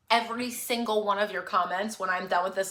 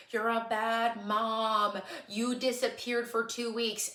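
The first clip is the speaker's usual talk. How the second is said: voice of guilt; 4 dB quieter, slower than usual. Retold or imitated. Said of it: "guilt swirling over my head saying".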